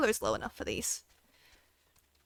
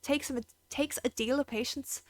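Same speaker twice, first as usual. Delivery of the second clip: put-on lightly done Irish accent; a hint of an Irish stable keeper, easygoing. Stable keeper thanking the adventurer, light Irish accent. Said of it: "if you have an Irish accent".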